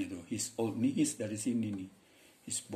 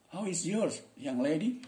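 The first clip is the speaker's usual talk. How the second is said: lilting, higher-pitched questioner; acted dialogue question; 8 semitones higher, slower than usual. Shown as a demonstration. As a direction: ask it high and playful, as in a dialogue. (bertanya dengan nada tinggi, berperan dalam dialog)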